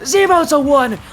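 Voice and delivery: loud high final call; shouted goal call. Real, not acted. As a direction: belt out the final score. Caster calls the final goal.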